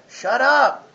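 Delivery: firm command. Acted. Commanding the flesh to stop.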